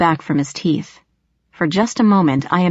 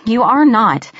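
higher, mildly exasperated retort; firm contradiction; 4 semitones higher, 4 dB louder than usual. A narrator's reading. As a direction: firmly shut down the child's claim. Sister contradicts the boy firmly.

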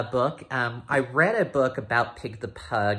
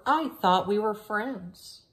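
much higher, small hurt dog voice; poor little Trevor; 11 semitones higher than usual. Acted. Trevor asking his friend Pig, small hurt voice. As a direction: sound like a sad little wiener dog. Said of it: "asked poor little Trevor".

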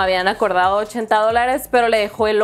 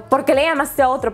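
retold shout, pitched up; mock shouting; 4 semitones higher than usual. Locksmith confronts the husband about calling another, mock shouting. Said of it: "Pero así gritando".

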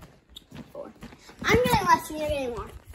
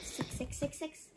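whispered wish; 12 dB quieter, slower than usual. Real, not acted. Whispering hope for a six.

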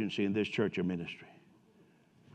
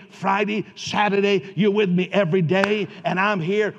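rising fervent prayer; 3 semitones higher, 5 dB louder than usual. Pretend. Building prayer shown to congregation.

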